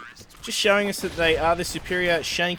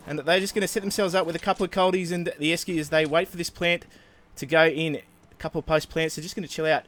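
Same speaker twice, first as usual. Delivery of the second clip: put-on Ocker Australian accent. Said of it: "our best Australian Ocker impression".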